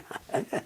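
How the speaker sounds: short, soft laugh to oneself; imitated laugh. Imitating a man alone at the bar, laughing at his own joke. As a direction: imitate a private chuckle. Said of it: "and he'd be laughing".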